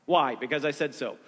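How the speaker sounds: lightly voiced stern dad, a little low; a hint of low-pitched fatherly authority; daddy voice. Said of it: "you can just use the daddy voice".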